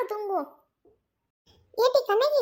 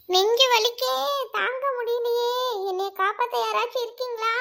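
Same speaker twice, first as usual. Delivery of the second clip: fake chest pain. Friend pretending chest pain so the others believe her, moaning in mock agony. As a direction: plead for help in put-on agony. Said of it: "நெஞ்சு வலின்னு சொல்லிட்டு வயிறு பிடிக்காத".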